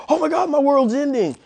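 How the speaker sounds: high, loud mock despair; voicing the dog's overblown despair; dramatic dog. Trainer voicing his dog after a correction, mock despair. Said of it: "And he's like".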